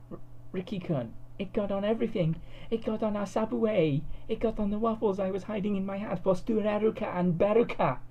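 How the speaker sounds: stammering cartoon girl, building up; flustered anime girl. A narrator's reading. Cud voiced in story.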